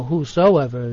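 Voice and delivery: "whosoever" with SO picked out; stress on SO. Shown as a demonstration. Bible teacher correcting a misquote, stress on the SO in "whosoever". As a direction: lean on the "so" inside "whosoever". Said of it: "focus in on that little word".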